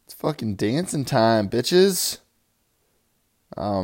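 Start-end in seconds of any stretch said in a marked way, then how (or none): 0.1-2.2 rising into a shouted "bitches"; party hype intro; hype yell. Acted. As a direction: pump up the crowd, end on a high shout.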